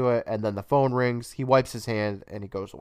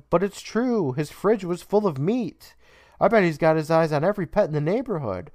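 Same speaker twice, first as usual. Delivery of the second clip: higher-pitched, mock-earnest pleading; insistent kid protest; 5 semitones higher than usual. Jed retelling his suspicions to his mom, mock-insistent. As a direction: imitate a boy insisting he's right.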